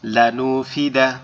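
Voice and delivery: "লানুফিদা" এক টানে ধীরে, স্পষ্ট উচ্চারণে; "লানুফিদা" পুরো শব্দ একসাথে ধীরে পড়া; রিডিং পড়া. Shown as a demonstration. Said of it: "এটা আমি রিডিং পড়ব". (বানান নয়, রিডিং হিসেবে "লানুফিদা" ধীরে)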